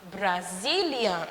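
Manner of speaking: quiet model repetition of Brazilian; repeat for class. Shown as a demonstration. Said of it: "Brasileiro em inglês é Brazilian".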